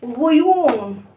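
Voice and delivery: غيوم stretched very slowly, syllable by syllable; teacher slowly sounding out غيوم. Shown as a demonstration. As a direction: draw out غيوم slowly for the kids. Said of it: "بصوا كده يا ولاد".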